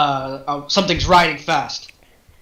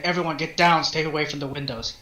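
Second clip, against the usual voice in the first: urgent low warning; 5 dB quieter than usual. Acted. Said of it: "you hear Jeremiah say".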